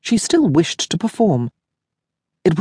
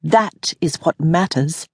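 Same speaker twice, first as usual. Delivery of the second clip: firm reminder; slower than usual. Acted. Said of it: "she reminded her".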